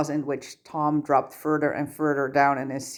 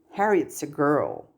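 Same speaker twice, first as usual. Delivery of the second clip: very firm. Acted. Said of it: "in a very firm voice that brooked no argument".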